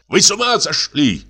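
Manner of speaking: high-pitched shocked protest; outraged cry. A narrator's reading. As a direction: cry out indignantly without much added volume. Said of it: "крикнул Абогин". (возмущённый выкрик высоким голосом)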